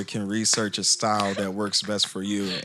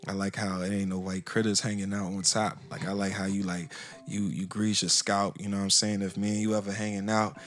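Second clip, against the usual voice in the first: sexy voice. Pretend. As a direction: croon it close to the mic like a smooth talker. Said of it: "you put the sexy voice on".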